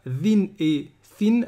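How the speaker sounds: VIN and FIN as voiced and voiceless th, ending in a sounded n; tongue out. Shown as a demonstration. Teacher pointing out both letters to learners, tongue out. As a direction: slowly say "vin" and "fin" with tongue between the teeth. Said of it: "la langue elle sort dans les deux".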